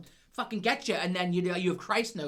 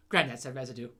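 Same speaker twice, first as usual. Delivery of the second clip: imitated child tattling; 6 semitones lower than usual. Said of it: "he's like".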